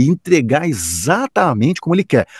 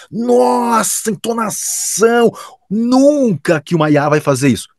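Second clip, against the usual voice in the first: much higher, slow scoffing imitation; mocking Kleber; 10 semitones higher, slower than usual. Imitating Kleber scoffing at AI intonation, high mock tone. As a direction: scoff at the idea in a high put-on voice. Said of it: "o jeito do Kleber".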